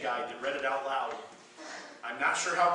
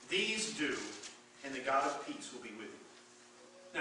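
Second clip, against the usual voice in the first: measured, solemn reading of the passage; scripture reading; 2 semitones higher than usual. Acted. Pastor reading scripture to the church, solemn and measured. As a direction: read it like holy writ to the congregation.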